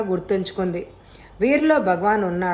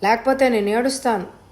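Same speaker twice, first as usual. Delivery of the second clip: wild outburst; 4 semitones higher than usual. Acted. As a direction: shout them out like a girl gone mad. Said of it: "అంది అమల పిచ్చిగా చూస్తూ".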